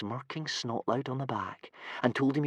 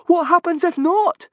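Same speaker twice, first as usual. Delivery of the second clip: very high, louder nervous question; squeaky; 11 dB louder than usual. Acted. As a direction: fret in a squeak. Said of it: "squeaked Fishlegs".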